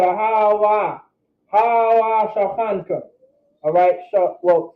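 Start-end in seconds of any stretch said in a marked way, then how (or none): 0.0-3.0 Hawa Shachanka blended smoothly, slightly slow; flowing together. Shown as a demonstration. Teacher shows the class a smooth blended pronunciation. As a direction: glide the syllables into each other. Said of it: "letting it flow together".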